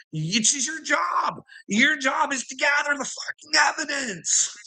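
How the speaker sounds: rising to a high furious shout; angry shouting at police. Retold or imitated. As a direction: scream at the officer that it's his job. Yelling at the police officer.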